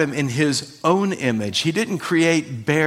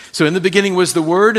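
fast, louder run at the line "So in the beginning was the Word"; emphatic fast take; 3 semitones higher, 5 dB louder, much faster than usual. Shown as a demonstration. Pastor drills the verse home for his congregation, fast and loud. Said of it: "He's making a definitive statement".

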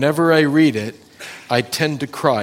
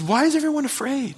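David's challenge; 12 semitones higher, faster than usual. Retold or imitated. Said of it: "David went out and says".

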